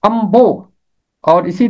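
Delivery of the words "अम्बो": अम्बो with the न sounding as म before ब; teacher demonstrating अम्बो; nasal becomes m. Shown as a demonstration. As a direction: say अम्बो as am-bo, the n turned to m. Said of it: "नून बन जाएगा मीम".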